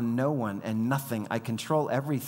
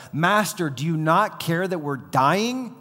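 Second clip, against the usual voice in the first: higher, louder panicked plea; alarmed disciples; 4 semitones higher, 5 dB louder, slower than usual. Retold or imitated. Disciples waking Jesus in the storm, mock-panicked plea. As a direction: cry out to wake him, acting alarmed. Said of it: "They're afraid of drowning".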